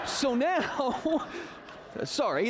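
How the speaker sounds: giggling through the words; laughing. Real, not acted. Teacher cracking up at his own joke, laughing. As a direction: break into a laugh. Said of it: "I'm getting very excited".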